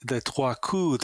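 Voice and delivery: trois coups, said the French way as twah koo; French pronunciation. Shown as a demonstration. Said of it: "they're called".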